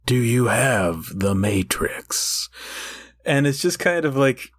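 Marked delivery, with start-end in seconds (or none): 0.0-2.5 low, slow, half-whispered mock-epic delivery; overwrought slow drama. Mocking the griffin character's voice, slow and overwrought. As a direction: drag each phrase out like a gloomy cartoon epic. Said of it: "so overwrought ... slow and dramatic".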